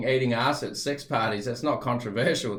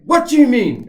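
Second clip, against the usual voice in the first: stepdad voice; 10 semitones higher, 9 dB louder than usual. Retold or imitated. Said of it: "And he's like".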